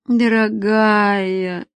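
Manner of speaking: tired man gently sighs her name; weary tenderness. Acted. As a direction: stretch the word tiredly.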